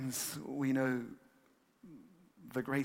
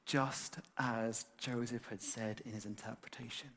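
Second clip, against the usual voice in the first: slow hushed whisper of the verse; 2 semitones lower, 6 dB quieter than usual. Shown as a demonstration. Preacher whispering the key verse to the congregation, slowly. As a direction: breathe the words like a secret.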